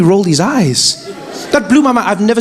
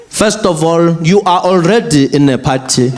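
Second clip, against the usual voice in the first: stern father; slower than usual. Retold or imitated. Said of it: "father scolding daughter".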